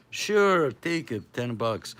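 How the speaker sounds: high, loud, easygoing seller voice; casual seller. Retold or imitated. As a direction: toss off a cheap deal. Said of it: "he says".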